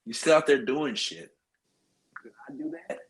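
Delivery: ordinary delivery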